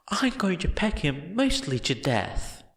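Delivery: high, gleeful giant voice; a big dog promising to maul the rival; eager menacing giant. A narrator's reading. Giant amends his threat.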